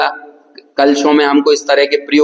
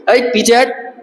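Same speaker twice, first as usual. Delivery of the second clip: forceful call; 6 semitones higher than usual. Shown as a demonstration. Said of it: "जोर से बोलेंगे".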